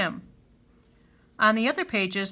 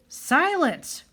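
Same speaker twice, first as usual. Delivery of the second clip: mock roar; 6 semitones higher than usual. A narrator's reading. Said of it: "roared the chief".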